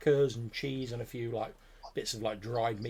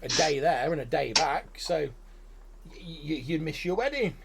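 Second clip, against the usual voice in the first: high, louder goblin warning; 6 semitones higher, 5 dB louder than usual. Acted. Goblin warning the groom about his wedding, high. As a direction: goblin points out a snag. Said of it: "He says".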